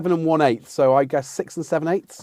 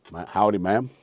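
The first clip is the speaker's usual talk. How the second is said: lightly voiced cowboy, lower pitch; Western character; 4 semitones lower than usual. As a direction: tip a hint of cowboy into it. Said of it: "I could play any Western character".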